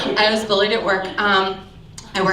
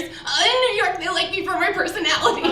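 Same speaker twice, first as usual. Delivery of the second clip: stuttering; 7 semitones higher than usual. Retold or imitated. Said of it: "and stutters".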